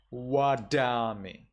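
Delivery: wadami with a round W and sharp d; wadami, W and crisp d; Burmese reading. Shown as a demonstration. Teacher giving the Burmese reading, wadami. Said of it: "you would read this as".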